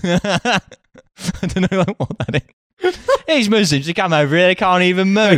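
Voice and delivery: high, hammed-up Aussie yob voice; a jeering Australian-accent caricature; mock Australian bigot. Mock racist Australian bloke rant.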